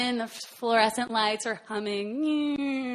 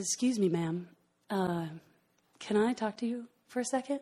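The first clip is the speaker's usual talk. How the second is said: lower, softer big-man voice; huge deep voice; 2 semitones lower, 4 dB quieter than usual. Retold or imitated. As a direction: lightly voice a huge man, pitched down. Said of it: "he's this huge, deep voice".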